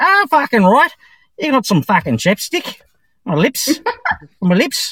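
put-on Australian accent. Retelling how he talked at the store, in an Australian accent. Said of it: "I had never done an Australian accent before".

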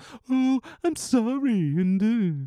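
condescending tone, very high pitch, drawn out. Criticizing the bar scene, the speaker imitates Homer's condescending voice. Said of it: "Homer's condescending voice".

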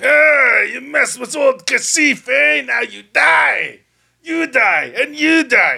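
ragged, very high shout, long drawn-out you. The game master voices Old Kasif on his turn, pointing at the party, Old Kasif yelling. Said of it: "He starts yelling".

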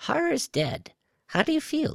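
very high-pitched, swooping reptilian creature voice. Reading a story aloud, a reptilian monster speaks to a man just waking, high-pitched reptilian voice. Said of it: "A high-pitched voice came from his right".

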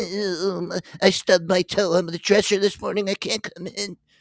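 very high, drawn-out voice. Mocking workers who call out sick: mock excuse of a worker calling out sick. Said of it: "Everybody wants to call out sick".

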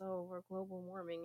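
ordinary talk, nothing marked

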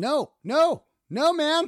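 high, loud yelling. Telling of a driver not stopping for another car, retelling a yell. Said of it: "I'm yelling".

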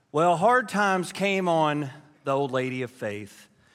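ordinary talk

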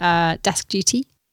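ordinary delivery

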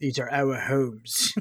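put-on heavy Australian accent, laid on thick. Recalling a film speech by a character from Seattle: Hemsworth's thick Australian accent. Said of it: "in his very thick Australian accent".

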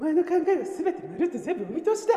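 put-on voice, pitched very high. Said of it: "似てないですか".

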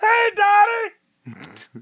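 very high, loud, nasal, swinging manchild voice. After claiming you can't do it, call out to Dottie in a Pee-wee voice. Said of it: "I can't do Pee Wee's voice".

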